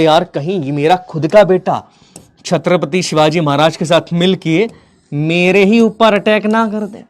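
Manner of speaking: slow, drawn-out worried musing, mildly acted; retold fear. Teacher voicing Aurangzeb fearing his own son, mild slow dread. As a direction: stretch out the dread, rising towards the end. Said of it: "उसके मन में आया डर".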